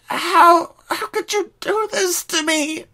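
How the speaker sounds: very high, betrayed cry; anguished. Acted. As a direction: break down asking how. Rainbow betrayed.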